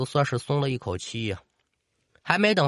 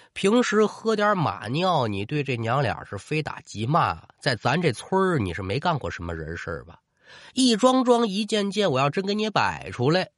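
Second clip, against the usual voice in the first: put-on stern scolding old lady. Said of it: "老太太这话说的不客气".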